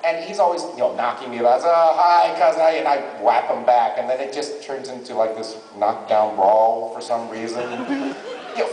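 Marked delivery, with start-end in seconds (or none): 1.6-2.8 put-on New York accent. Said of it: "kinda like a New Yorker".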